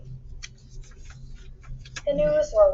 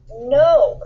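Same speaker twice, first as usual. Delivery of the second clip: louder startled no; alarmed cry; 4 semitones higher, 7 dB louder than usual. A narrator's reading. James seeing Henry pour the acid, alarmed cry. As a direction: James crying out to stop him. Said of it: "cried James".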